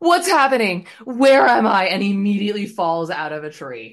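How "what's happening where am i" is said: high, loud screaming. Retelling Todd waking up in a tree: imitating Todd screaming. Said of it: "just is, like, screaming".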